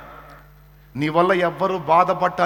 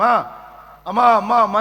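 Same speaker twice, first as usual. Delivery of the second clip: put-on child crying out; 5 semitones higher, 6 dB louder than usual. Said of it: "కేకలేస్తుంది".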